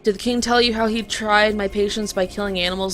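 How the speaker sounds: scornful creature voice; indignant creature. Acted. Creature accusing the king.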